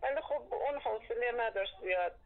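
caller heard through phone line; over a landline phone. Real, not acted. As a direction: narrow telephone sound.

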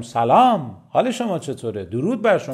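lively, engaged greeting with swooping tune; welcoming greeting. Shown as a demonstration. Trainer shows how delivery changes a greeting, lively and welcoming. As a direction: greet them with energy on سلام and درود.

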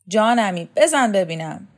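loud, punchy egging-on; urging on. Acted. Shokat hands the student the knife, urging loudly. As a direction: cheer him on to take the throw.

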